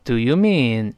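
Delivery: slow American "what", moderately open; drawn-out American "what"; American pronunciation. Shown as a demonstration. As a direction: model "what" in American style, not overdone. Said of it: "美式呢口型变得大一些".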